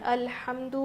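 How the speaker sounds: الحمد said short and quick, without dragging; quick correct reading. Shown as a demonstration. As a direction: clip الحمد cleanly, no stretching. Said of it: "جلدی سے ادا کرنا ہے". (الحمد جلدی اور بغیر کھینچے)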